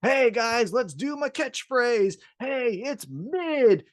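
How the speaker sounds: a hint of a fake-friendly good guy drawing out his catchphrase; caricature babyface. Host mocking MJF's fake babyface act, lightly voiced cheesy hero. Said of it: "a caricature of a babyface played by M J F".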